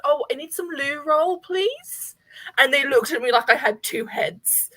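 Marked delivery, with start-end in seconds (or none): 0.0-2.1 posh. Retold or imitated. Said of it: "And I was like".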